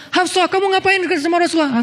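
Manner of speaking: high, sharp scolding; scolding father. Acted. Umar scolding his daughter Hafsah, high sharp rebuke. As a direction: tell off your daughter up high. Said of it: "Umar marah-marah".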